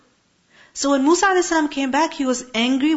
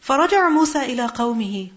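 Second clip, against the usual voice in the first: quick recitation of the Arabic verse; fast Quran recitation; recited verse; much faster than usual. Acted. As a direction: recite it briskly from memory.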